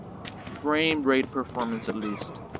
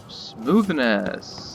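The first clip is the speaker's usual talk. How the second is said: dry sarcastic praise; 3 dB louder than usual. Pretend. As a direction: say it with heavy irony. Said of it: "And I am being very sarcastic here".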